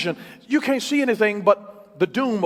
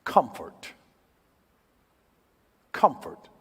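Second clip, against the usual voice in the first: hushed comfort; 6 semitones lower, 5 dB quieter, slower than usual. Retold or imitated. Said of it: "I hear this".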